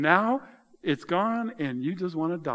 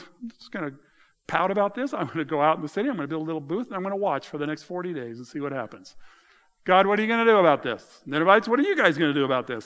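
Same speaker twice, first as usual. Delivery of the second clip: pouting sulk; 4 dB louder, faster than usual. Retold or imitated. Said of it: "Jonah's just pouting like a little baby".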